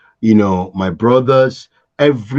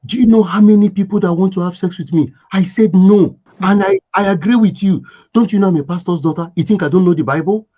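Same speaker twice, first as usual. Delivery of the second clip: furious; 7 semitones higher, 3 dB louder, faster than usual. Retold or imitated. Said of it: "She was furious, angry".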